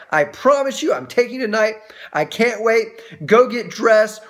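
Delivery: lightly acted excited dad; eager promise. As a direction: build eager anticipation for the kids. Father excitedly promises daughters a movie.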